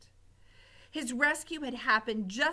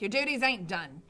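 bossy cook; 4 dB louder than usual. Acted. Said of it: "said Cook".

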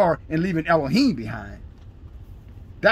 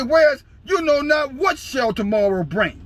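shouted scripture; 8 semitones higher than usual. Acted. Preacher shouts scripture at listeners.

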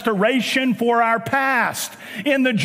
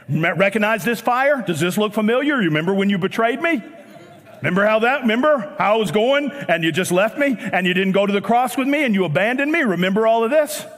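mock guilt-tripping; faster than usual. Preacher imagines Jesus confronting Peter over betrayal, mock guilt-tripping. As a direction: pile on the pointed questions.

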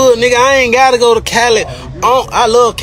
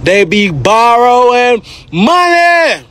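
mocking drawl; slower than usual. Real, not acted. Mocking drawn repeat.

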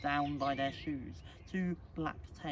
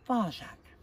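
lightly voiced mother, higher and louder; reproving mother; 8 semitones higher, 6 dB louder than usual. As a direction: cut in as a mildly reproving mother. Mother cuts off the child.

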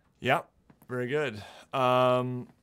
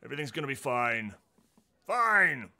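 blustering reassurance; 2 semitones higher, 5 dB louder than usual. Acted. Trovis reassures loudly.

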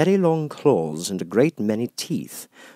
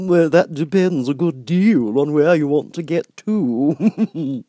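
grinning Cheshire Cat; 9 semitones higher, 7 dB louder, slower than usual. Acted. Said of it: "said the cat".

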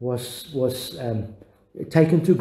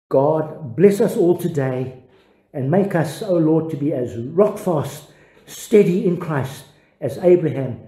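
closing prayer. Acted. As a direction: pray it out over the congregation, reverent and measured. Closing prayer over the congregation.

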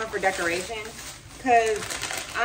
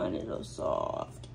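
whispered, slow and hushed; soft whisper; 7 dB quieter, slower than usual. Real, not acted. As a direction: breathe it out as a tender secret. Cooing at dog.

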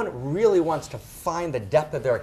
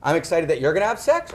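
louder, mock-excited exclamation; put-on enthusiasm, lifted and punchy; acted excitement; 2 semitones higher, 5 dB louder than usual. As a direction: play someone thrilled at the news. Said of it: "which you're excited".

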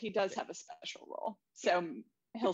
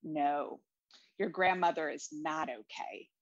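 lower, soft therapist voice; 5 semitones lower than usual. Retold or imitated. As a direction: lower and softer clinical tone. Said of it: "the way she says it".

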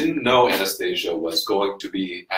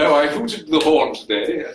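fake British accent; 4 semitones higher than usual. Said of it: "It's not a bad British accent".

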